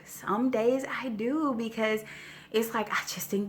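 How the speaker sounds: breathy whisper of a confession. Real, not acted. Admits it, then repeats.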